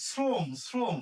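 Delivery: শ্রম begun with an s, as srom; English S sound. Shown as a demonstration. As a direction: say শ্রম with a crisp English s before r. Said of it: "ইংরেজি এস এর মতো". (শ্রম-এর শ ইংরেজি এস-এর মতো)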